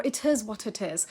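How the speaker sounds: IT IS WHAT IT IS with every T released; light clear Ts linking IT IS WHAT IT IS; clean light T. Shown as a demonstration. Teacher showing British T in phrases, clean light T. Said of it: "every T stays a clean".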